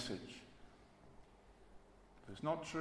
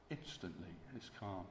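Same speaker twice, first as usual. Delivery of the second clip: "calm" dropped much softer and falling; hushed repeat; 4 semitones lower, 10 dB quieter than usual. Shown as a demonstration. Preacher echoing the stilled storm to the congregation, hushed. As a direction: let the hush settle on "calm".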